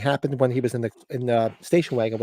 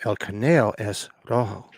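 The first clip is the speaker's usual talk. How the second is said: little-voice catchphrase; 4 semitones lower than usual. Retold or imitated. Host repeating the running bit to co-host, little voice. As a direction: lower imitated Spanish little voice. Repeats the whispered film line.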